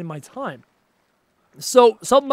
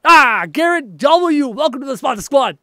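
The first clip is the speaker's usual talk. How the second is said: excited welcome; 5 semitones higher, 6 dB louder than usual. Real, not acted. Streamer welcomes Garrett W. excitedly, high and loud. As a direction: greet the new member warmly.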